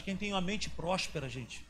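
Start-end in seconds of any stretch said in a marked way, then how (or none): none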